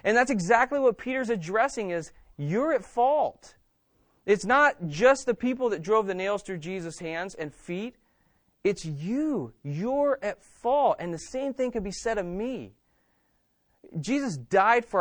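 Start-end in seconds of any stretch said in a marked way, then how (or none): 2.4-3.5 you're at fault, slow and deliberate; pointed accusation; slow emphasis. Real, not acted. Preacher presses guilt on congregation. 9.6-11.0 you're at fault, slow and deliberate; pointed accusation; slow emphasis. Real, not acted. Repeats accusation to congregation.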